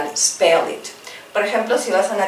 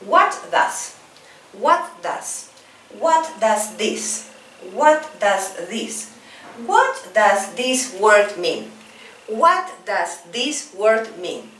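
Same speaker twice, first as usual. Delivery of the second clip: slow, careful teacher model phrase; slow drill model; slower than usual. Shown as a demonstration. Teacher drilling students, slow careful repeat-after-me model. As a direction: stretch it out for learners to copy. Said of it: "Let's repeat".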